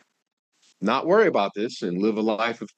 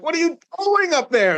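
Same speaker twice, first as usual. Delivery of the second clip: high-pitched, loud Grinch shouting; hammed-up exasperated holler; frustrated yell; 7 dB louder than usual. Grinch yelling up at Cindy Lou Who, mock frustrated yell. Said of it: "And he, like, yells".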